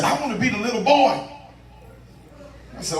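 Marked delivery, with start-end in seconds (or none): 0.0-1.1 higher-pitched imitation of an eager volunteer; mildly excited quote. Preacher retells lady jumping up, mildly excited. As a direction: lift it up, mimicking her eagerness. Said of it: "people get excited".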